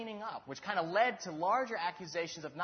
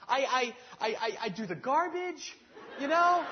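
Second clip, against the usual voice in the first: high, loud, sputtering self-defense; husband pleading his case in a quarrel, high and loud; defensive argument; 9 semitones higher, 8 dB louder than usual. Retold or imitated. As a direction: argue your chores back at her, stumbling over I. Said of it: "I was like".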